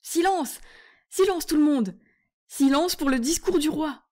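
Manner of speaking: loud, high call for silence; herald's shout. Acted. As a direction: call the hall to order over the crowd. Herald calls the hall to order.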